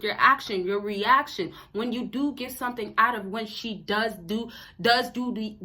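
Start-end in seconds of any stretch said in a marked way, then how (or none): 1.7-5.6 words slurred around a retainer; wearing a retainer. Real, not acted. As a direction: talk with a retainer in your mouth. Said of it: "I'm having trouble these days ... my retainers".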